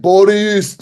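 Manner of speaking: excited shout of the character's name; mock cheer. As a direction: call out his name like a fan.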